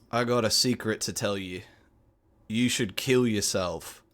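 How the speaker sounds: deadpan Cockney, deliberate and in earnest; understated, serious Cockney delivery. Acted. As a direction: say it like it really needs doing. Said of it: "he just says it very seriously".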